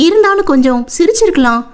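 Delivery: put-on young woman's fretful musing; wistful brooding. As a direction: complain to yourself with lingering regret. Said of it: "அவள் மனம் மீண்டும் அதையே நினைக்க".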